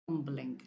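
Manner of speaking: Dumpling with stress on DUM; stress on first syllable. Shown as a demonstration. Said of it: "So I stress the first".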